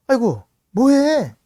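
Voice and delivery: a loud, drawn-out cry of surprise; startled call. Retold or imitated. Father finds crying son.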